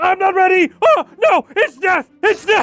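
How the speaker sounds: imitated panicked voices. Imitating game heroes as they hover over the deadliest area: imitating Darkest Dungeon heroes panicking. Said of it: "Everyone just starts losing their shit".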